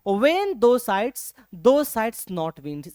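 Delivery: very slow, drawn-out recital of the line; slow poem reading. Shown as a demonstration. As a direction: read each word of the verse slowly. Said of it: "इस side का मतलब होता है".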